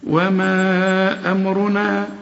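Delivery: slow measured recitation; Quran recitation. Shown as a demonstration. Teacher showing a student how to recite. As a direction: chant it slowly, each letter given its due. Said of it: "ادي كل حرف حقه".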